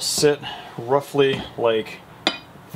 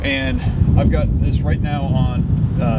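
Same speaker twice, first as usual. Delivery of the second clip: shouting over wind; 4 dB louder than usual. Real, not acted. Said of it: "Hopefully you can hear me over the wind".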